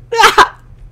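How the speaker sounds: very high, loud fake cry; mock crying wail. Player threatening to cry over lost iron, mock wail. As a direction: wail it in a short burst. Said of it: "I'm also gonna cry".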